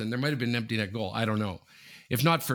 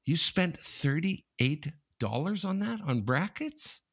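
dismayed senior; 6 semitones higher, slower than usual. Retold or imitated. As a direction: tut over wasted money like a frugal senior. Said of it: "they go like this".

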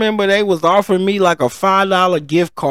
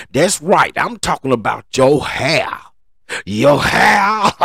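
preacher voice. Acted. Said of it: "I had to put my preacher voice in".

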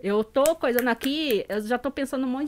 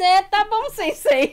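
high, loud mock surrender; playful submission; 8 semitones higher, 7 dB louder, slower than usual. Mother giving in to her son's lessons, mock submissive. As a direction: humor the little teacher in a raised voice. Giving in to son playing teacher.

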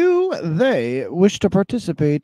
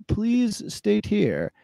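Tom Mountain voice; 8 dB quieter, much slower than usual. Pretend. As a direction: draw it out like a big slow giant. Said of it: "read this in Tom Mountain voice".

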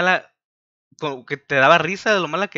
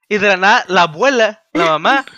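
louder, building up the surprise; eager storyteller voice; excited telling; 3 semitones higher, 6 dB louder than usual. Real, not acted. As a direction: punch each phrase louder as the story peaks. Excited retelling of scene.

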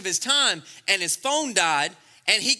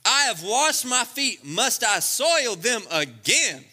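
sassy; 3 semitones higher, slower than usual. Retold or imitated. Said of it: "It just sounds sassy".

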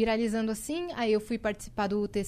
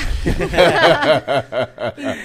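big loud laugh; loud burst of laughter; 10 semitones lower, 11 dB louder than usual. Real, not acted. Laughing at own story. (gargalhada alta)

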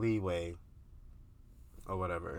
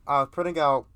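louder, breaking into laughter; real laughter, pushed louder; laughing; 5 semitones higher, 11 dB louder than usual. Real, not acted. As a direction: still giggling through the line. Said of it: "clearly cannot say the fucking word".

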